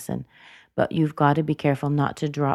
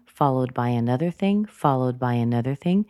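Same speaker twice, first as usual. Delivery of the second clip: THING rising at the end of "followed by another thing"; upward list intonation; 3 semitones lower than usual. Shown as a demonstration. Giving a list of things, upward intonation. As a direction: lift each "thing" to keep the list open. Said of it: "we often use this upward intonation".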